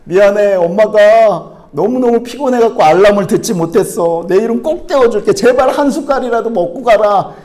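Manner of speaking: imploring, fussing mom voice; apologetic mother. Acted. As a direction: play a mom apologizing anxiously to her child. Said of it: "엄마들의 모습은 어떻죠?".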